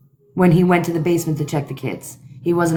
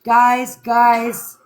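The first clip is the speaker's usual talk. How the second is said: mock alarmed calling; 4 semitones higher, 4 dB louder, much slower than usual. Father searching for his kids.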